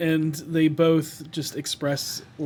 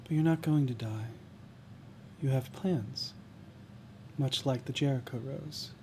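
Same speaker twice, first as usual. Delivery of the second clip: gentle reassurance; 6 dB quieter than usual. Acted. Character comforts another, hand on shoulder.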